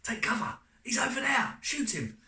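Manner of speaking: very high shouted combat commands; soldier voices. Shown as a demonstration. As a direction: yell urgent orders as a video-game soldier. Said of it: "I did lots of different voices".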